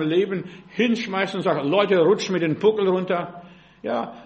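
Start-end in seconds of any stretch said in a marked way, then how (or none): 1.7-3.4 loud mock exasperation; fed-up outburst. Preacher retelling his urge to quit, loud fed-up outburst. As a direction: throw it out loudly, as if quitting.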